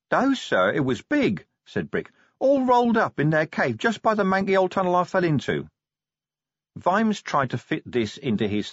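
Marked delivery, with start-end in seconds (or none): 0.1-5.7 dim troll Brick. Acted. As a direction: blurt it out like a dazed young troll. Brick voiced.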